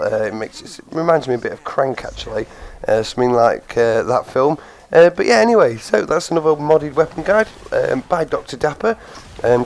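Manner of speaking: hoarse, croaky throat. Real, not acted. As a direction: talk through a sore, croaky voice. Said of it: "my horrible croaky voice".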